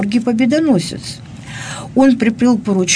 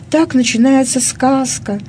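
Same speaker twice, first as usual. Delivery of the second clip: crystal tinkling voice; 5 semitones higher than usual. Acted. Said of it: "прозвенел вдруг чей-то хрустальный голосок".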